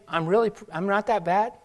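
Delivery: a whiny voice saying I am not that bad; mock self-excuse. Voicing self-excusing people.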